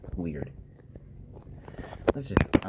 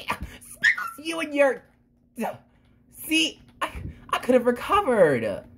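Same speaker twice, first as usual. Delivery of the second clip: high playful cat voice; 11 semitones higher than usual. Acted. Playful argument with Speckles.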